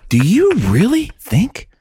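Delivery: high, slow, furious whisper; whispered rage at a vegan drummer; angry whisper. Retold or imitated. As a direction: hiss it like a private fantasy rant. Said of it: "But I'm like".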